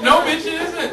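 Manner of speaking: high, loud sassy no; sassy retort. Pretend. Retort to naming.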